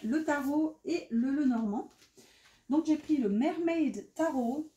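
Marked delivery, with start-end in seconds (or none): 3.3-4.7 English title in a heavy French accent; French-accented English, drawn out; thick French accent. Real, not acted. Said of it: "j'ai un accent incroyable".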